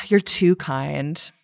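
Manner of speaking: a sighing troll giving in; weary sigh. Retold or imitated. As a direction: say it worn out after a sigh. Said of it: "heaves a big sigh and goes like".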